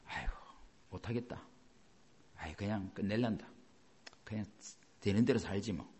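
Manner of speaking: soft, low resigned mumble; weary giving up. Retold or imitated. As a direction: let the words sink like you quit. Quoting someone giving up. (힘 빠진 채 작게 포기하는 말투)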